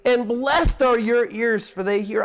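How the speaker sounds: mild, marvelling excitement; lightly acted excitement, leaning on the key words; excited Jesus. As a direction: voice Christ's excitement with emphatic blessing. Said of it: "hear the excitement in the voice of Christ".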